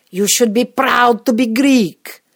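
loud, high, slow scolding; hammed-up indignant lecture; berating. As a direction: scold with every word drawn out. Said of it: "I'm berated for not claiming my Greekness".

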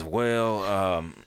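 high, loud, drawn-out protest; indignant Job. Acted. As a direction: plead upward like a baffled, aggrieved complainer. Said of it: "Job raises his hand and says".

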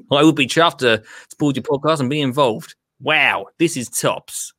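imitating an upbeat Australian; Australian accent. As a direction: read it out in a put-on Australian accent. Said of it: "I'll do the accent as well".

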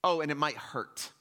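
mock Paul calling out; casual Paul paraphrase. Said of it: "he's like".

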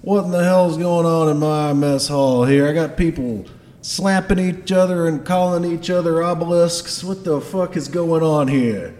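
blustering Scottish dwarf boss; loud, indignant Scottish accent. Acted. Dwarf boss scolding his mess hall, gruff Scottish accent. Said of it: "has a Scottish accent".

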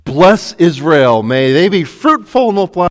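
proclaiming blessing. Acted. Balaam blesses instead of cursing.

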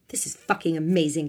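mild, understated excited shout; thrilled shout. A narrator's reading. Tiffany thrilled by the car chase, mildly shouting. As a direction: exclaim with a touch of thrill. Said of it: "Tiffany shouted".

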